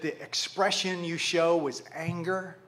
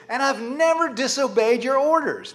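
higher, louder self-righteous claim; 6 semitones higher, 6 dB louder than usual. Acted. Older son defending himself to father, self-righteous. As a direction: declare your spotless record insistently. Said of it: "don't you hear a little bit of self-righteousness".

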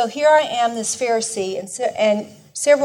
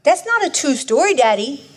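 put-on child's protest; 4 semitones higher, 4 dB louder than usual. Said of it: "You can hear it".

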